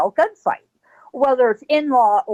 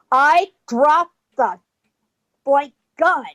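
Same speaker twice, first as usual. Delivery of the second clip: slow, word-by-word order; measured command; 3 semitones higher, slower than usual. Retold or imitated. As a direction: spell out the order as a standoff warning. Wyatt's retold order, slow and measured.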